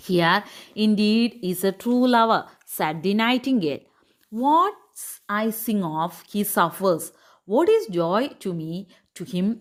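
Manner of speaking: slow, measured English read-aloud; story reading. A narrator's reading. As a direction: read the tale slowly, phrase by phrase. (സാവധാനം കഥ വായിക്കുന്നു)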